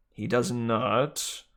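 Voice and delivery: very slow, grumbling snake; slow sulky male snake voice; George the snake. Acted. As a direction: sulk it out slowly. George retorting.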